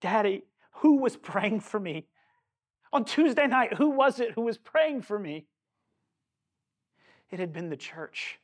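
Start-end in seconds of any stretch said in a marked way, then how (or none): 0.0-5.5 mildly startled, urgent asking; lightly voiced daughter between sobs; retold startled question. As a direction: ask it insistently, with a touch of shock. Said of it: "startled, and she looks at him".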